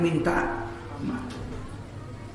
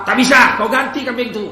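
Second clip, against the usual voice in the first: stern refusal; 4 semitones higher, 6 dB louder than usual. Acted. Owner refusing, demanding repayment.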